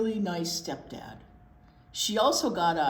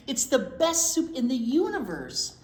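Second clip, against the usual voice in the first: louder, higher bragging grandma; proud grandma boast; 5 semitones higher, 6 dB louder than usual. Acted. Bubby boasting to Jillian, proud and loud.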